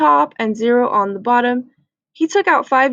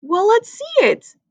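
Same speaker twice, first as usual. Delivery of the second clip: put-on impatient boy; 9 semitones higher than usual. Andrew impatient.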